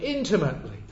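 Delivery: "intimately" set apart and said loudly; "intimately" punched out as its own phrase; stress on intimately. Real, not acted. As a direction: land firmly on "intimately" as the key word. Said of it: "the key word is that last word".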